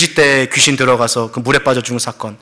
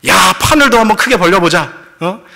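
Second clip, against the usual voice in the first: louder, higher, eager disciple voice; a disciple dreaming big, urging the others on; swelling with hope; 5 semitones higher, 3 dB louder than usual. Retold or imitated. Disciples plotting to go big, eager and louder. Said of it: "하고 부푼 마음으로".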